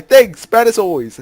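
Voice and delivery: deadpan the gloomy answer; mock reply. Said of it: "I'll reply".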